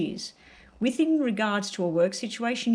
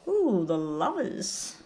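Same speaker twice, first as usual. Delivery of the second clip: slow intrigued ooh; drawn-out ooh; much slower than usual. Real, not acted. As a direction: savour the reveal. Reacting to drawn card.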